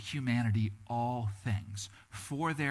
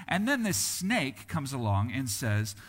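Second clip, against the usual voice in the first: ordinary talk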